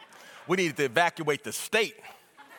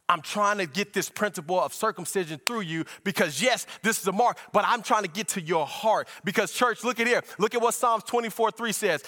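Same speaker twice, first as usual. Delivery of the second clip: driving, raised preaching voice; fervent preaching; 6 semitones higher than usual. Acted. Preacher unfolding scripture to church, fervent preaching. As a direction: preach it with steady momentum.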